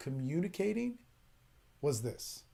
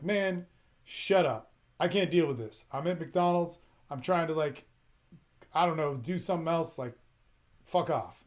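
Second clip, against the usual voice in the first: mean brush-off. Retold or imitated. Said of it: "I would be mean".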